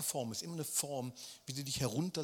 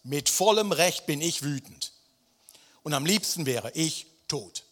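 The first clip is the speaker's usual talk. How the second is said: angry Jona; 9 dB louder than usual. Acted. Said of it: "Vers neun".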